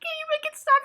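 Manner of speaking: very high tearful plea; exaggerated whimpering plea; mock crying. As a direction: beg like a weepy child, played for laughs. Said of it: "I was hysterically crying".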